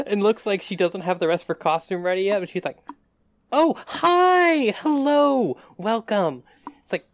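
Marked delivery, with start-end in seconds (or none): 3.5-6.4 high, loud singsong welcome; high, bright hello; bright greeting. Acted. Daughter greeting guests brightly.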